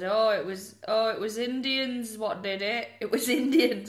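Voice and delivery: put-on light Rochdale accent for a shifty excuse. The Benders blame the Indians, in a mock Rochdale accent. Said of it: "they've got a Rochdale accent".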